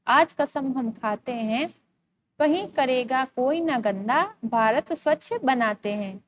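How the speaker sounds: put-on slow, measured verse reading for children; poem recitation. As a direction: recite line by line with pauses between. Reads the poem aloud. (कविता पाठ)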